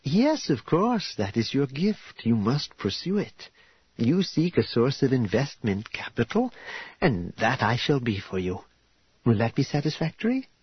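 lightly voiced, formal and approving hostess; gracious formal bride-to-be. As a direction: set out a marriage offer with measured courtesy. Voices Karya agreeing to terms.

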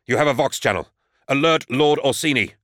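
rising to a shouted order; urgent command. A narrator's reading. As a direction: bark it out to be heard over the fire. Urgent order amid battle.

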